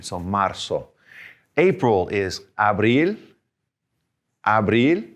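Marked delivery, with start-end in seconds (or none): 0.2-0.9 "marzo" with the Z said as S, like MAR-so. Shown as a demonstration. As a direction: make the Z in "marzo" a plain S sound. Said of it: "sound a little bit more like an S".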